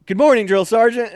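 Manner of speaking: high, loud sing-song greeting; cheeky shouted greeting. Retold or imitated. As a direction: greet him brightly at full volume. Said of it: "I'd be like".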